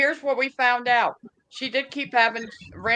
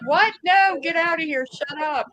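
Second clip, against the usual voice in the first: shocked disbelief; 6 semitones higher than usual. Retold or imitated. Siblings react to mother's shocking revelation.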